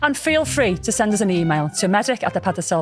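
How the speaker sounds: upbeat announcer read over music; podcast outro read. Acted. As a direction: sign off the show like a radio host.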